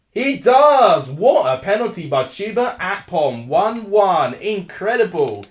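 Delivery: loud, high, thrilled goal shout; goal call. Real, not acted. Live penalty goal call.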